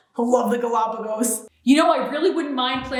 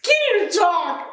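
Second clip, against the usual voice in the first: choked up; 3 semitones higher than usual. Acted. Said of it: "Got a little choked up there".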